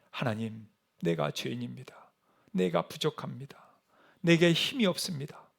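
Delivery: low, very soft prayer; hushed confession. Acted. Preacher modelling secret confession before God, hushed and low. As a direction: confess humbly, barely raising the voice.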